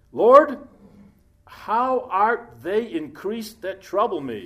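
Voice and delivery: loud, pleading cry to the Lord; cry out to God. Acted. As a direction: call it out high and loud, then slow down. Preacher reads David's cry.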